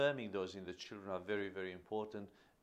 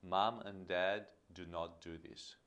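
firm; 3 semitones lower than usual. Shown as a demonstration. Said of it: "but in a firm way".

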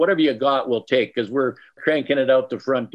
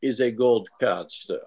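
fake French accent. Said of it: "my fake French accent for you".

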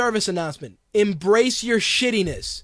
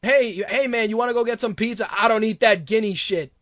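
a hint of a racist dad, rushed through the pizza question; friend's racist father scoffing, lightly imitated; imitating racist father. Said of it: "my boy's pops is racist as shit".

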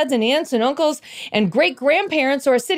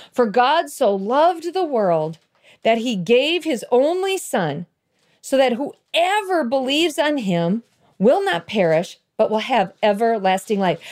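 scripture reading. Acted. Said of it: "God's word says in John three sixteen".

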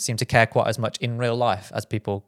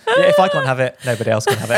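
mock-spiteful outburst; 6 dB louder than usual. Host jokes about parkrun deleting records, mock-spiteful outburst. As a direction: throw a playful if-I-can't-nobody-can strop.

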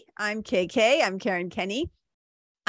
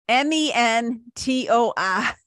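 each letter said slowly and apart; spelled out slowly; 2 semitones higher, slower than usual. Shown as a demonstration. Spelling the word for podcast listeners, slowly. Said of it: "hard for me to say that letter".

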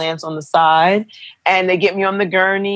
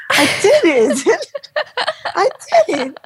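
high, laughing I did it; giddy, laughing with relief; laughing elation. Retold or imitated. New mother laughing in giddy disbelief at the nurses' praise. Mother elated after birth.

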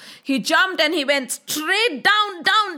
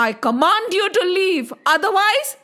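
higher, quick, firm order; commanding; 4 semitones higher, faster than usual. Acted. Krishna commands the serpent to leave, commanding. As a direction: order the intruder out with a warning.

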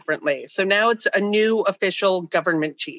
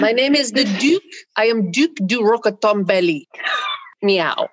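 pompous cat duke; 2 semitones higher than usual. Pretend. Cohost voicing the cat as a duke, pompous. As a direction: play the cat as a snooty French duke.

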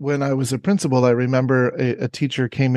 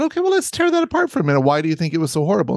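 upbeat reassurance; much faster than usual. Retold or imitated. Principal reassuring teacher.

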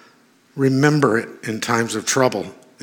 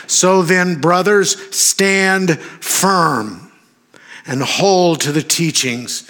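declaimed scripture reading; 2 semitones higher than usual. Real, not acted. Reads scripture aloud with force.

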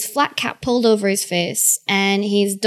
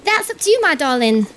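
cheery cook voice; 4 semitones higher than usual. Acted.

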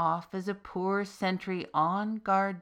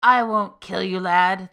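much louder, big booming voice; booming demon; 11 dB louder than usual. Acted. Freed demon reassures the soldier with a loud boom. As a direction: boom it at him. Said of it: "the demon boomed".

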